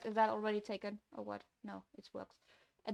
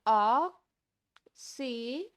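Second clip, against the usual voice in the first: loud shout; 3 semitones higher, 8 dB louder than usual. Real, not acted. Shouted countdown start.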